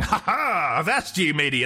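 premature victory crow, pitch falling away; gloating. Acted. Player thinks he has won against the enemy, gloating. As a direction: gloat over a beaten foe. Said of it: "when I'm gloating over them".

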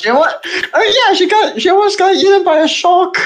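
laughing through the words; giggling while telling it. Real, not acted. Laughing while listing her faults.

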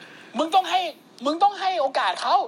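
high, mock-earnest insistence; insistent defence. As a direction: argue for giving him a chance. Acted defender pleading for his boss.

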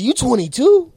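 high, loud disbelieving question; incredulous coworker. Retold or imitated. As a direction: imitate a shocked coworker, pitch shooting up. Coworker shocked at his age.

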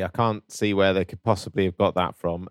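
dry, understated sarcasm; sarcastic. Real, not acted. Host playing dumb about copied turtle toys, sarcastic. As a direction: feign puzzlement with dry irony. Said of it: "it was sarcasm".

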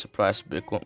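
accidental slip into Scottish; a hint of a Scottish accent. Real, not acted. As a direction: drift into a light Scottish lilt. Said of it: "Why am I doing a Scottish accent?".

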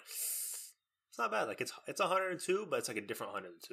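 mock nonchalant. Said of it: "I'm like".

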